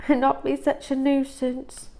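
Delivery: a mother's gentle tut; scolding mother. Acted. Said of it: "added Mama".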